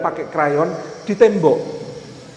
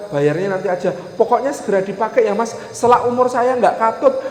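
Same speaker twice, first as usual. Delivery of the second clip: lightly voiced seller, often higher than usual; eager house seller; 4 semitones higher than usual. Seller offers the keys and easy payment, lightly acted eager insistence. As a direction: keep coaxing, brushing aside every worry. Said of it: "ada orang nawarin rumah".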